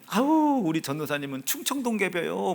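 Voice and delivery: imitating a churchgoer's Chungcheong dialect; mock Chungcheong villager talk. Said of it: "충청도 사투리 썼어요".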